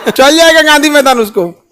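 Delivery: amused, laughing through the words; joking with a laugh. Real, not acted. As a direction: let a real chuckle break into the line. Laughs while joking about ambulance misuse.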